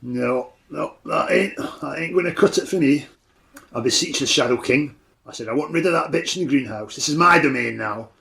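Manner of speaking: a lightly voiced hulking warlock, gruff refusal; a hint of a big brute brushing off a deal; Fletcher the warlock. GM as the warlock refusing the players' offer, lightly gruff.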